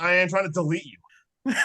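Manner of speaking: slow, laughing through fake anger. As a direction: crack up while insisting.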